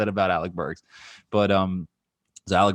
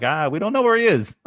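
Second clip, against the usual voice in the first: higher, louder mock-helpless quote; flustered team officials; 10 semitones higher, 6 dB louder than usual. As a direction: throw up your hands as baffled officials. Flustered team officials voiced in story.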